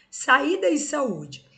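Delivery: slow, high "saída e saúde" with "í" and "ú" hit hard; stressed syllable shown. Shown as a demonstration. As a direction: lean on the accented í and ú, drawn out. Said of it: "pronunciada com mais intensidade".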